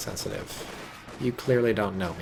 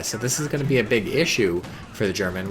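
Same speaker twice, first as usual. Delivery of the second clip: normal talking voice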